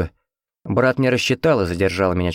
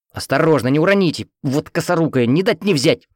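angry bark; 7 semitones higher than usual. A narrator's reading. Head nurse scolding Svetka for nearly dropping the legs: angry bark. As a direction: snap at the clumsy young nurse. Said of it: "рявкнула медичка в сердцах".

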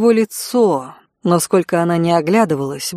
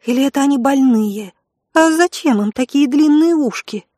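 put-on high, delighted young girl; excited girl's voice; 6 semitones higher than usual. A narrator's reading. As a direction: squeal with girlish delight. (восторженный девичий голос)

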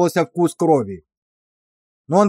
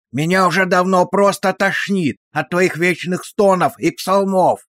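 hissed through teeth; 5 semitones higher than usual. Acted. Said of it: "прошипел он сквозь зубы".

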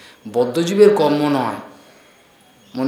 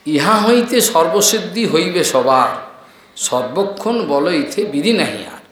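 scripture recitation. Acted.

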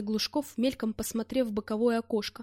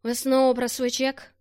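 irritated outburst, louder; flaring up; 2 semitones higher, 5 dB louder than usual. Acted. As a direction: snap back in anger. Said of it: "вспылил я". (вспылив)

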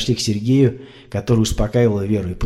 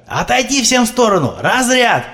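shouted order; 11 semitones higher than usual. A narrator's reading. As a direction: order everyone back, then shock. Medic orders before defibrillation.

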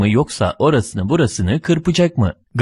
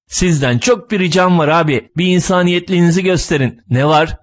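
pleading; 7 semitones higher than usual. Acted. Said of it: "Sülün yalvarır".

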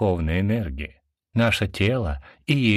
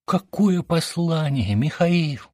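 shouting; 9 semitones higher than usual. A narrator's reading. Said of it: "закричал он".

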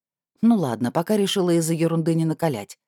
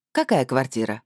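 sarcastic. Acted. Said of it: "язвительно спросила я".

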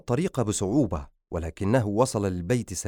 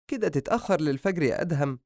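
higher-pitched gentle scolding; mother's raised, reproachful voice; worried mother; 7 semitones higher than usual. Acted. Mother gently scolds late son.

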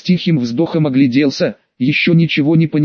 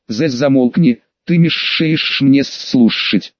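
dragon voice; slower than usual. Acted. Dragon speaks to fox.

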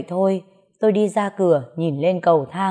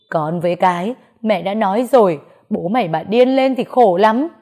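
sobbing; 3 dB louder than usual. Acted. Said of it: "mẹ tôi ngồi đó khóc nức nở".

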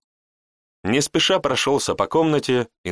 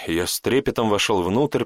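ordinary delivery

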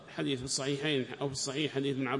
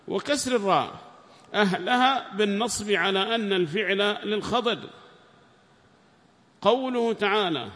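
reading the book aloud, raised and formal; loud text reading; 7 semitones higher, 7 dB louder than usual. Acted. Student reads the tafsir aloud to the sheikh, raised and formal. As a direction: read the passage out to the class, loudly.

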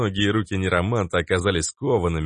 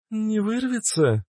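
higher, slow, wary question; suspicious girl; slower than usual. A narrator's reading. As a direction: ask with doubt. Liana voiced high. (Лиана подозрительно спрашивает)

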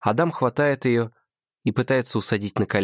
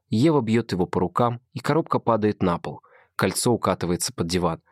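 usual speaking voice

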